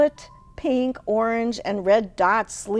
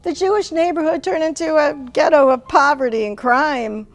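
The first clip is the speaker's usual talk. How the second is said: mother voice; 4 semitones higher, 4 dB louder than usual. Acted. Mother voiced announcing change.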